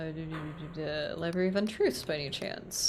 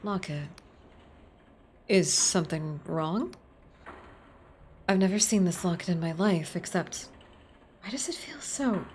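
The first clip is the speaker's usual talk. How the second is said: a prim librarian, startled and defensive; lightly voiced startled librarian. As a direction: voice the wary librarian.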